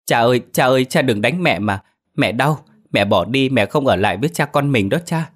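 put-on high, pleading little boy's voice, tearful; crying child. Little son clinging to his father's legs, crying and pleading. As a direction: beg father not to hit mother. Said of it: "ôm chân cha mình mà khóc".

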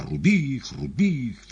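громко и высоко; крикни всадникам; боевой клич. A narrator's reading. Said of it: "кричал Пилат своим всадникам". (командный крик)

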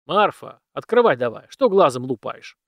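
stern call. Acted. Dead master demands door opened.

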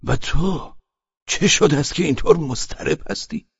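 serious displeasure. Acted. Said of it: "با لحنی جدی و نارازی".

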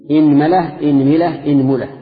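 إنملة said with i on the first vowel: inmala, inmila, inmula; teacher sounding out the i forms of إنملة. Shown as a demonstration. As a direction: drill إنملة loud with the middle vowel changing each time. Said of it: "خذوا كسر الهمزة".

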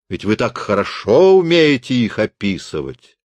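lecturing the teacher about his damnation; righteous tirade. Acted. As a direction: condemn him with scornful relish. Willi condemns the teacher.

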